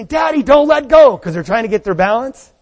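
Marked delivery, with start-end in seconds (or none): 0.0-1.2 put-on pleading child. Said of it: "And they say".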